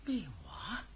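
stunned whispered "what?"; shocked whisper. Acted. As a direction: breathe it out in shock. Shocked at the invisible-man news.

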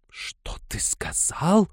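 slow, menacing whisper; mother whispering in disbelief at her son. A narrator's reading. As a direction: hiss it out in shock.

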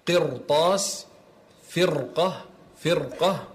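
قرطاس and فرقة with thickened r; heavy Ra. Shown as a demonstration. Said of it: "هنا أيضًا تفخم".

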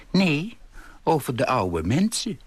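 put-on old lady calling out to correct him; indignant call. A narrator's reading. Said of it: "riep ze". (verontwaardigd uitroepen)

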